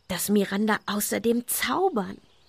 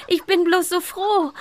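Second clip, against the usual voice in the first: high, loud and beaming; louder, gleeful girl's voice; joyful; 9 semitones higher, 4 dB louder than usual. Acted. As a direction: blurt out pure happiness. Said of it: "entschuldigte sich Madison".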